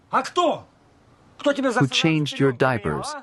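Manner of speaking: slow, high, drawn-out indignation; indignant reproach. Acted. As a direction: stretch each word out to shame him. Father scolding ungrateful son.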